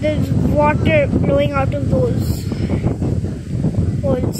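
showing friends the water bursting out; excited. Real, not acted. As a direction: marvel out loud at the spray. Pointing out the blowhole.

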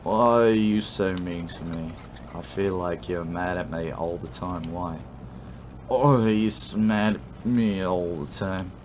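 put-on whiny drunken pleading; sloppy, tipsy complaint. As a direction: slur it like a hurt drunk friend. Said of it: "what it sounds like when you're drunk".

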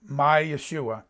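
low, quiet "my Yeshua", as ye-SHU-a; second-syllable stress. Shown as a demonstration. Preacher demonstrating "emphasize the second syllable" on "Yeshua", weight on SHU. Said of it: "emphasize the second syllable".

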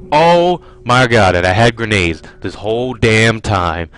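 heavy stress on "had", angry and loud; frustrated rant. Real, not acted. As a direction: hammer "had" in disbelief. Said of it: "how angry I am at myself".

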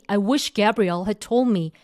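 very slow, told pressed hard and falling; stress on told. Shown as a demonstration. Teacher drilling students, slow stress on "told". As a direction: lean on the word "told", slowly. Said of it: "이렇게".

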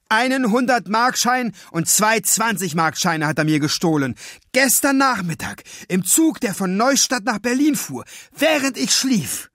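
put-on high, urgent boy's voice; young boy pouring out his complaint; eager boy voice. A narrator's reading. Emil accusing the thief before the cashier, high and urgent.

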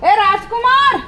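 high call for a worker out of sight. Real, not acted. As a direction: call the name up and across. Calling for absent worker Rajkumar.

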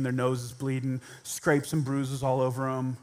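normal talking voice

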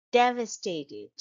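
"Devastated" stressed on DEV; first-syllable stress. Shown as a demonstration. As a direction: hit the opening syllable of "Devastated". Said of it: "the stress is on the first".

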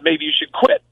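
a hint of the wife nudging him to quit; wife's gentle suggestion. Wife voiced in retold story.

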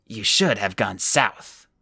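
slow, firm rebuke; stern old woman. Acted. The old woman scolding Flamel, slow firm old woman's voice. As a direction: tell him off slowly.

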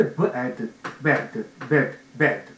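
ブ、エ、ディ sliding together into "bed"; smoothly joined. Shown as a demonstration. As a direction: link ブ、エ、ディ tighter each time until one word. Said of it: "つながって滑らかになって".

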